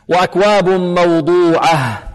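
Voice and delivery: slow recitation, final h of موضوعة clearly breathed out. Shown as a demonstration. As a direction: sound the closing ه in موضوعة distinctly. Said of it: "الهاء هنا لابد من إيضاحها". (ترتيل متأنٍ مع إيضاح الهاء في آخر موضوعة)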